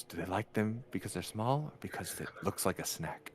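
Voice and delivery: lightly voiced Paul Mooney. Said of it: "In Paul Mooney's voice".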